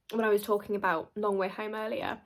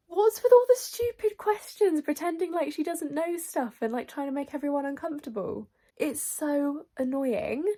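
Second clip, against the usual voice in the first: high, annoyed rant; exasperated rant; 5 semitones higher than usual. Real, not acted. Reader ranting to viewers about Jordan, exasperated. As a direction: vent your irritation.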